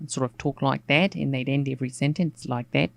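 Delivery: put-on Australian presenter accent, sentence endings lifted; Australian kids' presenter accent. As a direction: imitate a Sydney children's TV presenter's Australian accent. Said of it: "My presenter accent".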